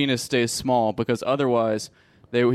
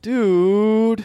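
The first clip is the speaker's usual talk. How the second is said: pained yelp; 8 semitones higher, 5 dB louder than usual. Real, not acted. Pained after being punched.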